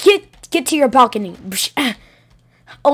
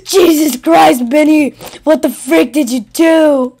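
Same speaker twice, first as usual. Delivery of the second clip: shocked yell; 5 dB louder than usual. Acted. Discovers Benny hurt Bonnie.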